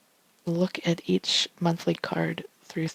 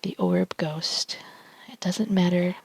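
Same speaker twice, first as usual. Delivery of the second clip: ASMR whisper reading tarot cards; hushed ASMR card reading. Real, not acted.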